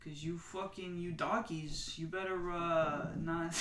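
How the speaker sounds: mock Staten Island tough-guy accent; lightly done Staten Island Italian accent, threatening. Mocking local guys in a Staten Island accent. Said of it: "Now I can't get myself out of the accent".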